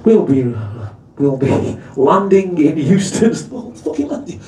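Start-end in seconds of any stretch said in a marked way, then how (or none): 0.0-3.3 smooth tannoy announcer voice; train driver announcement. Retold or imitated. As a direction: play the calm, reassuring train driver on the tannoy. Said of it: "over the tannoy comes the voice of the driver".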